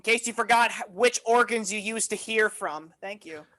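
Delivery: a hint of a slow, droning text-to-speech device; lightly voiced automated speech, drawn out; annoying boomer voice. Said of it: "the most annoying boomer voice".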